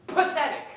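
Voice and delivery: "pathetic" set apart after a pause; emphasis on pathetic. Acted. Man insults his rival, pointed emphasis on "pathetic". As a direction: land hard on "pathetic" as a lone word. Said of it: "emphasis on the word".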